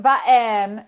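Button, T swallowed in the throat; glottal T. Shown as a demonstration. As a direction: catch the T with a glottal stop. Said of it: "the glottalization of T".

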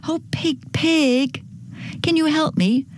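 high, pleading storybook hen; calling for help. Acted. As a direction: call out to a friend, pitched high. Hen calls on pig for help.

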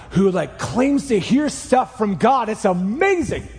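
lightly hammed-up amazement with stretched words; mock gushing. Someone recommending a guy who hears from God, mock-gushing. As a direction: play a mildly starry-eyed fan.

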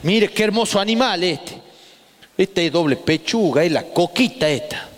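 mock abuela calling the boy over; imitating grandma. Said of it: "mi abuela me dice". (la abuela le muestra la gallina al nieto, imitada)

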